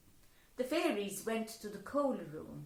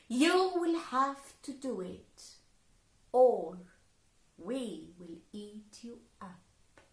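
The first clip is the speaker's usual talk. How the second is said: fairy threat; 5 dB louder than usual. Acted.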